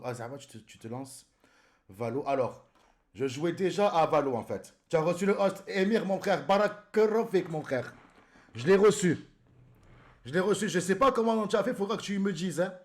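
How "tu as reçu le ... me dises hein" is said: loud, high, excited shout-out; excited thanks. Real, not acted. Streamer thanking Émir for the host, excited. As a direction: call out to a friend, pitched up.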